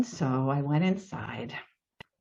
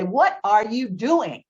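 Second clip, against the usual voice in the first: mild mock shout, higher pitched; retold shout upward; 5 semitones higher than usual. Homeowner to neighbor up in the cherry picker, mock shouting. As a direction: imitate calling up over engine noise. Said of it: "trying to shout up to him".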